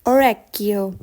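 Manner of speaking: a clear teaching demo of "Orecchio"; careful Italian pronunciation. Shown as a demonstration. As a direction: model "Orecchio" for the student to copy. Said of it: "focus on the pronunciation".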